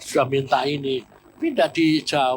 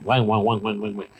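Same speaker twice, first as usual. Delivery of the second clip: tiruan omelan; 5 semitones lower than usual. Retold or imitated. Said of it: "Hanya ngomel nih perempuan ini".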